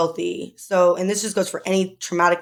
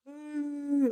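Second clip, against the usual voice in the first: high, soft, strained hum; forced crying whimper; 8 semitones higher, 9 dB quieter than usual. Retold or imitated. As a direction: squeeze out a fake little whimper. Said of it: "trying to make myself cry".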